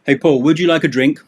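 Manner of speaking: breezy host asking a guest over; friend offering a drink. Shown as a demonstration. Teacher playing a friend, quick bright offer.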